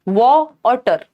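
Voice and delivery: वॉ और टर with each syllable said separately; split into syllables. Shown as a demonstration. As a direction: break water into two sounds, वॉ, then टर. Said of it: "दो syllable हैं".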